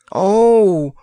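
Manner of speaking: high, loud hammed-up wail. Prince wailing at Grandpa's chimney, high and loud. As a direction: let out a wail of dismay. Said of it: "wailed the prince".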